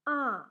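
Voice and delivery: loud, clear open A; teacher modelling the letter A, loud. Shown as a demonstration. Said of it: "it is pronounced like A".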